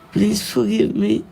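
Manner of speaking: pleading. Real, not acted. Tearful prayer, pleading repeatedly.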